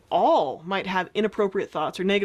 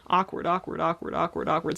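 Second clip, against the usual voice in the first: awkward repeated in a steady, dropping chant; repeating awkward. Shown as a demonstration. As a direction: chant the word awkward until it loses meaning. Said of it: "says the word awkward over and over".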